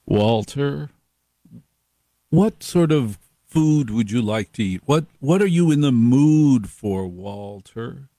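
a hint of a smooth fixer; lightly voiced, smooth and knowing; Dick Penn's voice. Host imitates Dick Penn asking Walter, lightly smooth. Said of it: "he'd talk like this".

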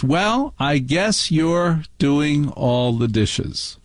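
slow, pointed mother's verdict, rising on "well"; Carmela Soprano. Retold or imitated. Mother to child alone in the kitchen, imitated reproach. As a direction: imitate a resentful wife's drawn-out reproach. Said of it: "in this voice, in the voice of Carmela Soprano".

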